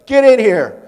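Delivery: high, angry mom shout; loud summoning yell. Acted. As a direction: yell for a child in the next room. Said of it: "So in a loud voice".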